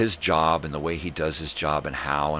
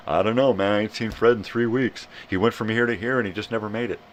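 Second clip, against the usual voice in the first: higher-pitched, put-on puzzled reply; worried friend; 5 semitones higher, 4 dB louder, faster than usual. Friend reporting Fred missing three weeks, baffled. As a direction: answer higher, as a baffled pal.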